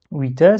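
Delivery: "Oui, ta" run together with a single t; no stop before "ta"; without shadda. Shown as a demonstration. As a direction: say "wita" straight through. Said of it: "comme si j'avais pas shadda".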